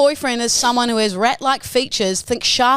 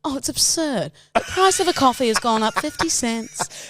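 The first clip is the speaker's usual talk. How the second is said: mock rich snob. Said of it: "words that really rich people".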